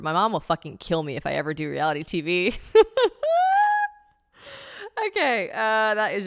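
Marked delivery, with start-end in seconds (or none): 2.6-3.9 shrieking laugh, very high; high squealing laugh. Real, not acted. Laughing at her old diary.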